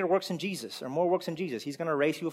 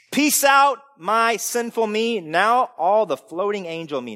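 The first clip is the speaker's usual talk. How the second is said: mocking naive believer; 4 semitones higher, 7 dB louder, slower than usual.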